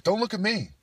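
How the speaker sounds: high, loud mock protest; reluctant bigger guy. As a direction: refuse loudly, passing the buck. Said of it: "a bigger guy, it's like".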